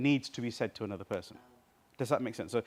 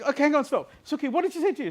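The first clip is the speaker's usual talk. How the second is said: mock urgent; 13 semitones higher, 6 dB louder, faster than usual. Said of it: "And then she".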